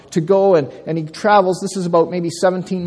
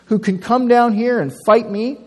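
higher, louder sneering challenge; mocking taunt; 7 semitones higher, 4 dB louder than usual. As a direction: scoff at the cowards across the valley. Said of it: "He mocks them and says".

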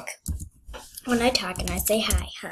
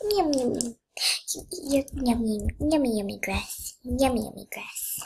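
playful horse; 2 semitones higher than usual. Pretend. Voicing horse eating grass.

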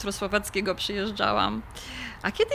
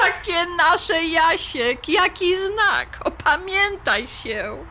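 incredulous rebuke; 4 semitones higher, slower than usual. Acted. She rejects his "our" flat.

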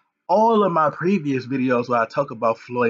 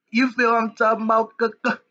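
hyped-up call out; 6 semitones higher, faster than usual. Acted. Vlogger hyping his viewers, pitched high and eager. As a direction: pump up the crowd with the question. Repeats rallying question to viewers.

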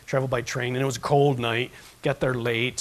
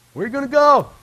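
high, loud, incredulous; loud exclaim; 12 semitones higher, 9 dB louder than usual. Shown as a demonstration. Preacher echoing Peter, louder and higher. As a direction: fling the question out. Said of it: "repeat builds".

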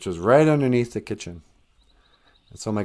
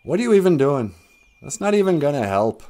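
scoffing character; 4 semitones higher, 4 dB louder than usual. Acted. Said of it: "And Wagosh says".

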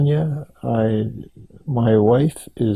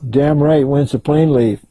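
higher, eager retold answer; instant eager reply; 4 semitones higher than usual. Man on the bunk accepting the Antarctic trip, instant eager reply. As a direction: jump at it without hesitation. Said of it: "Just like that".

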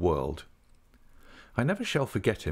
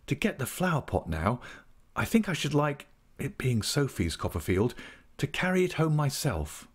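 slightly raised, earnest gentleman's voice; lightly voiced polite friend; 6 semitones higher than usual. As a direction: shyly explain a small sentimental request. Traddles asks for flower pot.

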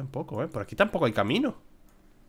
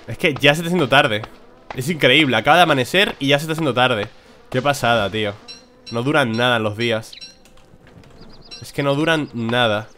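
louder, incredulous complaint; loud rant; 5 dB louder than usual. Real, not acted. Gamer ranting to viewers that days are too short, loud. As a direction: protest the short days to the audience.

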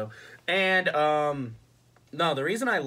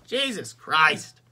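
exasperated; 6 dB louder, much slower than usual. Real, not acted. Exasperated exclamation, first take.

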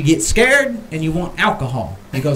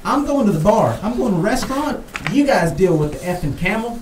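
raised, exasperated mock rant; quoting the angry owner; 5 semitones higher than usual. Owner fed up with toll workers, mock angry rant. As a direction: throw up your hands and storm off, hammed up. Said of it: "he ended up saying".

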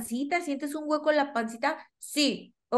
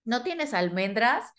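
put-on child asking for nuts. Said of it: "Y el que no te pregunta".

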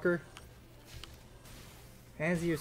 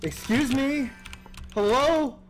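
indignant disbelief; 10 semitones higher, 3 dB louder, slower than usual. Real, not acted. Outraged at game, calling out.

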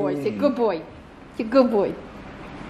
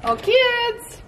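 raised, drawn-out calling voice; 9 semitones higher than usual. Real, not acted. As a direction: call them over from a distance. Calling out to the kids.

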